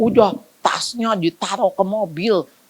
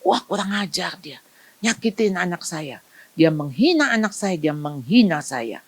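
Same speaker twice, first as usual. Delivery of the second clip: indignant parent; 4 semitones lower than usual. Retold or imitated. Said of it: "Anda seperti".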